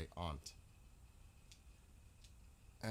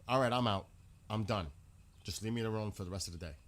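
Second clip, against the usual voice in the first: retold outburst; 3 dB louder, faster than usual. Storming out after insult.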